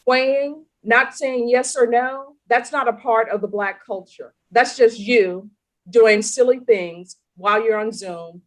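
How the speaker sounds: stern lecture. Real, not acted. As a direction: spell out each offence in reprimand. Judge lecturing defendant on her behavior.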